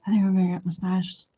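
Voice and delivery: hushed, quick muttered thought; calm inner voice. Retold or imitated. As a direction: think it aloud, softly and matter-of-factly. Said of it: "calmly sitting there".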